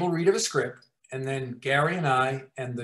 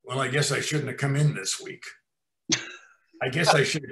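sulky; 3 semitones lower than usual. Retold or imitated. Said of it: "he's going like this".

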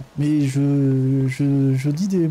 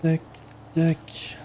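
put-on Ukrainian accent. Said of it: "mon superbe accent ukrainien".

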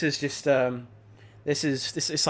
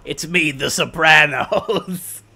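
mock mobster intro; slower than usual. Playing mobster naming show title.

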